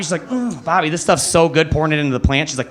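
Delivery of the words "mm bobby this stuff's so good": mock delight, a bit higher; happy girlfriend, imitated. Girlfriend praising her moon water, imitated delight. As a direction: play her pleased with her drink. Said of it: "and she's so happy".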